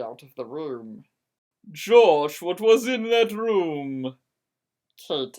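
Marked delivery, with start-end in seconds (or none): 1.7-4.2 loud call, timbre changed. Acted. Kate calling out to Josh from the bench, loud. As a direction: call to him across the room.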